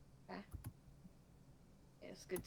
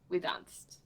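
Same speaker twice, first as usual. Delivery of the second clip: a breathy little whispered aside; sheepish whispered admission; 7 semitones lower, 4 dB quieter than usual. Real, not acted. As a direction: drop to a whisper, half to yourself. Sheepish aside after correction.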